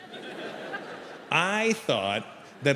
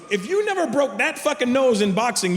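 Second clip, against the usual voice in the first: incredulous; 7 semitones higher than usual. Retold or imitated. Doctor incredulous in a retold argument.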